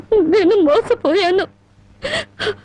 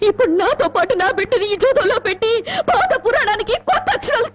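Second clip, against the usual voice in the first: bitter laugh; 3 semitones higher than usual. Acted. Wife bitterly mocks gambling husband.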